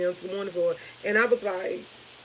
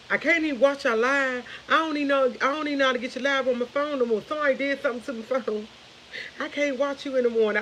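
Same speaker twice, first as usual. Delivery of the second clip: higher-pitched mock complaint; imitating mother; 5 semitones higher than usual. Imitating mother who can't find the live on her phone, complaining. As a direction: voice Mom's complaint in a raised pitch. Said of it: "the first thing my mother said".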